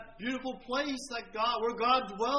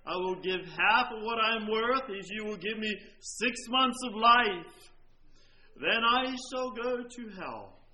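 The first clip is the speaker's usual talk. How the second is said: desperate cry; 2 semitones lower than usual. Retold or imitated. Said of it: "he cried out most desperately".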